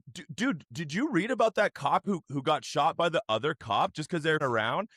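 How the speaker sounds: innocent cousin. Retold or imitated.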